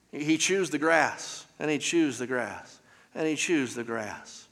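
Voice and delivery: unhurried, sinking a little with each repeat. Retold or imitated. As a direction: plod through it like a cow chewing cud. Mimics a cow's slow, repeated chewing.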